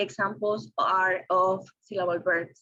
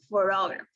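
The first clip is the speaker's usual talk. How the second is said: pho-TOG-raph for photograph; second-syllable stress; 3 semitones lower, faster than usual. Shown as a demonstration. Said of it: "word stress is located in the second".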